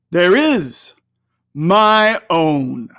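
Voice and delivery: grand, resounding spirit. Acted.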